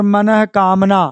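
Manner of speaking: मनः कामना dit lentement, mot coupé en deux; sépare bien मनः de कामना; slow and split. Shown as a demonstration. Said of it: "मनोकामना भी कहते हैं".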